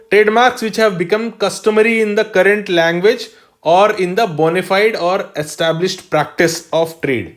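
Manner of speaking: slow, deliberate note dictation; dictating notes to the class. Shown as a demonstration. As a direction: spell it out slowly for students copying it down. Teacher dictating notes slowly.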